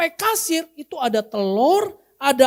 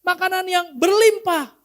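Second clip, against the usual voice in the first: mock greedy prayer; 4 semitones higher than usual. Shown as a demonstration.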